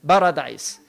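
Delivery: put-on "paradise" with a heavy Arabic accent and a rolled R. Teacher imitating how Arabs say "paradise" with a heavy accent. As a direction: roll the R in "paradise", Arab-style. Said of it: "they put those heavy accents".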